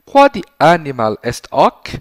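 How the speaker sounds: slow, loud Latin question. Shown as a demonstration. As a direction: ask it slowly and clearly.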